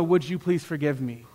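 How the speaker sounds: soft, low humble question; humble asking, no command; gentle request. Shown as a demonstration. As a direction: offer it quietly as a request. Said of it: "Please notice the question mark".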